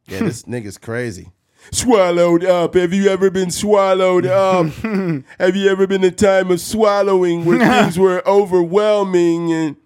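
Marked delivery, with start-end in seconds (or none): 1.7-9.8 mock preacher. Mocking the crypto pastor to his co-host, loud hammed-up preaching. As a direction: ham up an online pastor's sermon.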